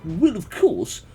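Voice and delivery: botched Cockney merchant. Acted. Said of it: "maybe I did the wrong accent. … he's a Cockney".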